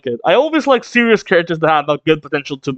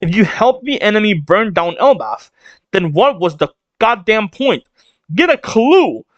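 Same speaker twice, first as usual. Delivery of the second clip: pissed off, acted; 3 semitones higher than usual. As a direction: scold with mounting exasperation. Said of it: "She is pissed".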